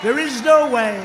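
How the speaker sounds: incredulous shouted exclamation; stunned disbelief. Retold or imitated. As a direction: blurt it out like you can't believe the news. Stunned by the election-night call.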